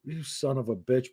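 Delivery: comic indignation at the dollar tip; mock outrage. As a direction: act cheated by a tiny tip.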